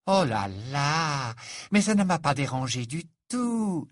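touch of effusive charm; lightly played, breezy Fleur; lightly voiced gushing Frenchwoman. Fleur's character voice.

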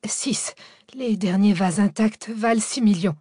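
stammering. Acted. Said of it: "Dimitri bredouilla".

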